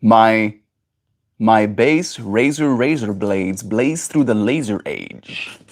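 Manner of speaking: slow, timid, cowering plea; scared voice. Shown as a demonstration. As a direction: say it like you're frightened. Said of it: "my scared, scared voice".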